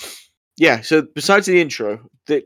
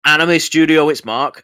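mock Scottish phone call; 3 semitones higher, 5 dB louder than usual. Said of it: "apologies for the terrible Scottish accents".

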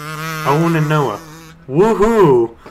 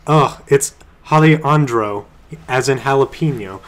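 put-on Spanish accent; 5 dB louder than usual. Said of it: "in Spanish accent".

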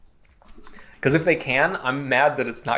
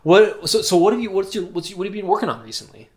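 stage fright; 5 semitones higher, faster than usual. Pretend. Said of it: "I'm nervous".

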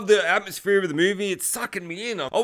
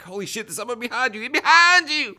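high urgent cry building to a shout; frantic warning; 7 semitones higher, 4 dB louder than usual. Acted. Viewer warns character of someone behind him, frantic. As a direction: build from high alarm to a loud yell on the last words.

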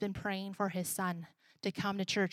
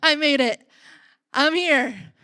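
triumphant arrival; 4 semitones higher, 11 dB louder than usual. Retold or imitated. Tired parent arriving at church.

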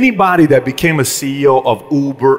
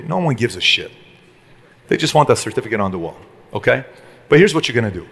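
fatherly advice; 3 semitones lower than usual. Retold or imitated. Father advising son on college.

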